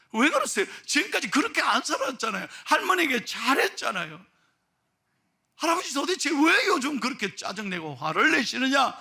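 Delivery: high, insistent questioning; acted, emphatic plea for an explanation; remonstrating pastor. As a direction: press him with rising exasperation. Pastor remonstrates with old man.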